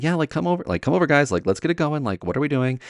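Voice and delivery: high-pitched frustrated hurrying along; impatiently herd the kids over; retold exasperated teacher calling pupils over. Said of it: "being really frustrated at the time".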